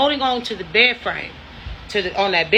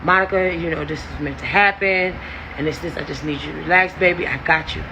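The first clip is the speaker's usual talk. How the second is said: imitating a man's lower-pitched persuasion; coaxing in the ear; 5 semitones lower, faster than usual. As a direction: drop your pitch to mimic his insistent coaxing. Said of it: "he's steadily in my ear like".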